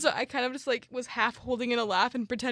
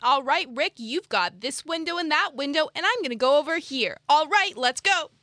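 peppy orientation leader; 5 semitones higher, 6 dB louder than usual. Pretend. Camp counselor voice continues.

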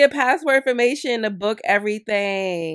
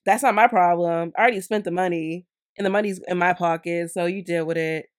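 mocking imitation of the scammer; 4 dB louder than usual. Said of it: "have the nerve to be like".

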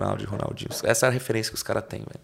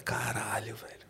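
whisper; 3 semitones lower, 13 dB quieter, slower than usual. Retold or imitated. Awed reaction to the mantra.

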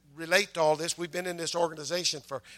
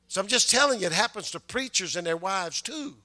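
higher, insistent pulpit delivery; forceful preaching; 4 semitones higher, 4 dB louder than usual. Real, not acted. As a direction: press the warning on the congregation. Preacher presses the point home.

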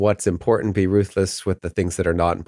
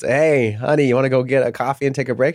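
higher-pitched, mild mock yell to a partner; mock calling out; 4 semitones higher than usual. Husband calls his wife for a coffee break, mock calling out. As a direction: imitate hollering through a door, only half raised. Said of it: "me yelling out the door at her".

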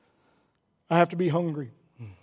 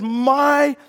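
powerful declaration; 4 semitones higher, slower than usual. Acted. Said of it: "he makes a powerful declaration".

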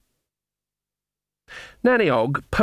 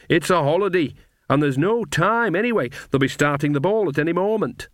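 higher-pitched witch, mildly dismissive; lightly voiced breezy witch; 6 semitones higher than usual. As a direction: brush off the plan as a lightly played witch.

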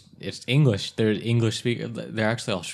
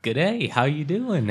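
mock Australian accent; 6 semitones higher than usual. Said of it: "Japanese accent ... But then they reply".

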